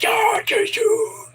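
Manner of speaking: very high mock cheer; cheering class. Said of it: "they're like".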